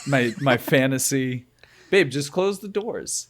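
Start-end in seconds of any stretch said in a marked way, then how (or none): 1.9-3.3 raised-pitch aside to his wife; calling to wife. Real, not acted. Calls aside to his wife mid-recording.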